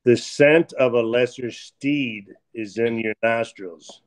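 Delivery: slow, low dramatic line delivery; slow mock-grand movie line; movie quote. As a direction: intone it like a pompous movie villain. Quoting movie line in character.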